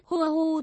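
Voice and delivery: a put-on wail of grief; hammed-up weeping; acted sobbing. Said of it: "Ngọc Lan khóc càng lớn hơn".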